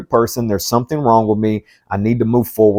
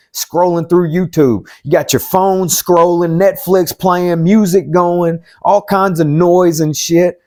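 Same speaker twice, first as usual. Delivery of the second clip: calling out; 6 semitones higher than usual. Real, not acted. Calling out viewers' TV habits.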